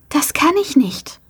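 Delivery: tonlos geflüstert, ängstlich; hauchen, kaum hörbar. A narrator's reading. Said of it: "flüsterte sie". (Mia flüstert Bo ängstlich zu, tonlos)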